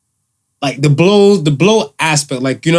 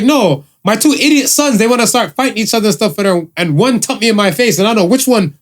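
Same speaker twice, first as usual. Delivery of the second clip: mimicking mother's complaint; 5 semitones higher than usual. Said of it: "She's like".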